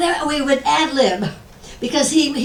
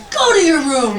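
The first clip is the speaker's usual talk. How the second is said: loud, higher-pitched quoted order; Larry Storch; 5 semitones higher, 5 dB louder than usual. Retold or imitated. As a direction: order someone off, raised voice. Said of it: "Larry Storch says to me".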